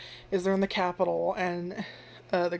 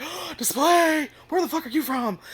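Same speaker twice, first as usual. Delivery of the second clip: mock incredulous; 8 semitones higher, 5 dB louder than usual. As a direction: drag out display in mock shock. Townsfolk retorting.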